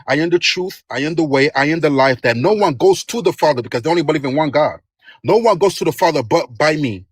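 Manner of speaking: insistent preaching. Real, not acted. Caller quoting scripture insistently to the streamer. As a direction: press the verse home.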